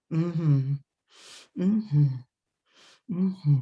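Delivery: easy, closed-mouth "mm-hmm"; contented hum. Shown as a demonstration. Walking down the street on a gorgeous day, contented humming. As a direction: hum lightly, at a leisurely pace. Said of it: "You're walking down the street on a gorgeous day".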